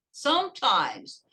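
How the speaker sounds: "Sometimes" said slowly and carefully, falling at the end; slow teacher's "Sometimes" for learners; pronunciation model. Shown as a demonstration. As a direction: model "Sometimes" slowly as some plus times. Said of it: "Olha a pronúncia".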